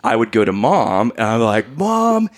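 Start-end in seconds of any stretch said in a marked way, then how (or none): 1.8-2.3 high-pitched mock child's question; upset kid imitation. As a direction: imitate a kid running to Mom, voice way up. Acting himself as upset child.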